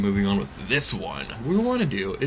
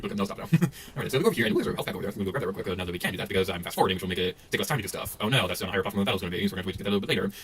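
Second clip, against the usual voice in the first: sped-up voice; 2 semitones lower, 4 dB quieter, much faster than usual. Real, not acted. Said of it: "my voice is gonna sound a little bit different".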